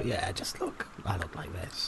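resigned mumble. Retold or imitated. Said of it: "I just always go".

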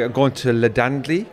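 Ledandley read out phonetically; mispronunciation. Retold or imitated. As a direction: say it as spelled. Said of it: "if I went phonetically with that".

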